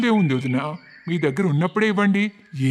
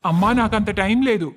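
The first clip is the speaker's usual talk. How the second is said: irritated son; 4 semitones higher, 5 dB louder than usual. Acted. Son brushes off mother on phone.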